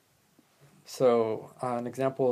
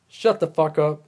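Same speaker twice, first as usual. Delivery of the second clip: mock shout; 4 semitones higher, 8 dB louder than usual. Mock scolding of one-uppers.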